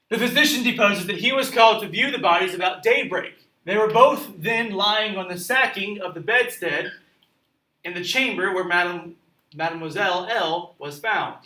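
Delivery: measured read-aloud of testimony; story narration. A narrator's reading. Teacher reading a physician's deposition aloud, narration. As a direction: read it out clearly to a class.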